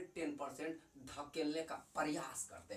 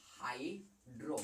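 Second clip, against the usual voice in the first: affectionate short name; 5 semitones lower, 6 dB quieter, much slower than usual. Shown as a demonstration. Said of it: "प्यार से कहा जाता है हाइड्रो".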